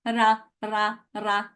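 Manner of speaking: ra, ra with a bunched English r; English r sound. Shown as a demonstration. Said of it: "and opera".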